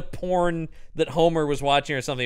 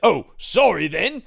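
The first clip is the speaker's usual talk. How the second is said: mock apology; 4 semitones higher, 6 dB louder, slower than usual. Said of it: "the guy's like".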